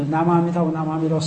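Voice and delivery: low, even chanting with no gaps; 追顶念佛. Shown as a demonstration. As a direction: chant the name back to back on one low note. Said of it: "追顶就是". (追顶念佛，低声平调连着念)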